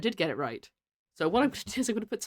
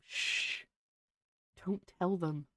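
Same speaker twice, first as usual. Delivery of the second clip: soft conspiratorial shushing; softly, mock-secretive; playful hush; 8 dB quieter, much slower than usual. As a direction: hush them as if sharing a secret. Mock secret shared with viewers.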